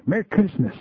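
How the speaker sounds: put-on high, sing-song child greeting; little girl voice. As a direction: chirp it like a cheerful four-year-old.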